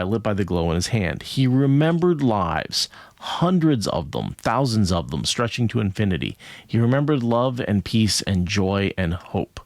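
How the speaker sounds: deliberate story reading, lingering on key phrases; book narration. A narrator's reading. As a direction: read the passage out with measured, epic weight. Reads book passage aloud.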